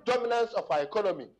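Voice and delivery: dominance pressed hard, then a firm falling close; said emphatically. Real, not acted. Guest finishes his point on foreign economic dominance, said emphatically. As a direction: land the point with conviction. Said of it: "And I'm saying it emphatically".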